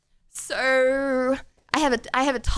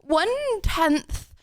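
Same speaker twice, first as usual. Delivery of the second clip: mock American; 2 semitones higher than usual. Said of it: "Americans be like".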